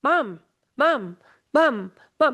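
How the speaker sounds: put-on insistent little kid calling Mom over and over; nagging toddler voice, each Mom pulled long; child calling mom. Toddler tugging at a busy parent, calling for mom.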